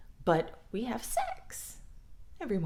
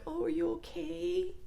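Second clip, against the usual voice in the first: mock sweet, much higher and softer; fake concern; 10 semitones higher, 4 dB quieter than usual. Sibling fakes concern after a beating, high sweet voice. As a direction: coo it with fake sympathy. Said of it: "then you're like".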